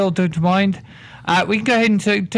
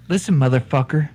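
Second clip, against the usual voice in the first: put-on Irish accent; 6 semitones lower than usual. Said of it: "You just switch the fucking accent".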